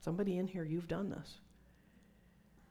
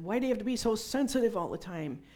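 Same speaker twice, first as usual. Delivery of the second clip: louder, higher, fast angry father's yell; imitating father shouting; retold yell; 4 semitones higher, 7 dB louder, faster than usual. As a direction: throw it out like a scolding dad. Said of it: "he yelled at me real loud".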